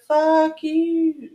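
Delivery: sharp, high comeback; defiant retort. Retold or imitated. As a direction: snap it back at him. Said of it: "And I'll be like".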